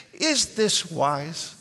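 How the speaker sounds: "Is this wise" very slow, every word stretched, rising to a question; exaggerated questioning inflection. Shown as a demonstration. Pastor modelling words for listeners to repeat, slow questioning inflection on "Is this wise". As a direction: draw out "Is this wise" word by word and lift the end. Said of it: "with the same inflection that I'm using".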